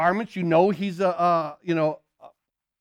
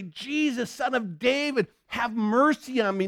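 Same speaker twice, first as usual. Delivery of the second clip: crying out; 4 semitones higher than usual. Acted. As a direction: plead for mercy in a higher voice. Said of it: "he began to cry and say".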